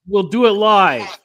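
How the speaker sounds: mock live rant. Quoting famous rant line.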